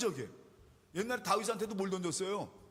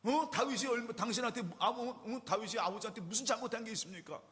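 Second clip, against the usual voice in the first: acted son's heated protest, pitched higher; indignant confronting; 3 semitones higher than usual. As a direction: challenge your father in mock outrage. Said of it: "가만히 있지 않고 막 아버지한테". (아버지에게 따지는 흉내)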